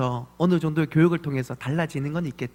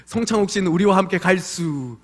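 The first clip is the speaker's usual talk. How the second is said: audition judge; 2 semitones higher, 4 dB louder than usual. Retold or imitated. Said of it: "뭐 이런 느낌이".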